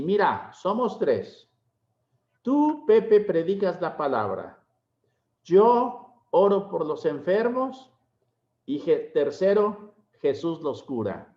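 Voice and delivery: lightly imitated Quebec French accent in Spanish; a hint of an old Quebec priest's Spanish accent, told fondly; hint of a Quebec French accent, retelling a dear friend's words. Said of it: "con su acento quebecois".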